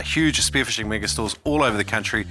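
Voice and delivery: upbeat podcast sponsor read; steady, emphatic promo delivery. Acted. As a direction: sell it like a friendly sponsor plug. Host reads sponsor ad.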